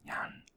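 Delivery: yan whispered with the pitch going up; rising tone on yan. Shown as a demonstration. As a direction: let yan glide upward, tone-lesson style. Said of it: "it goes up".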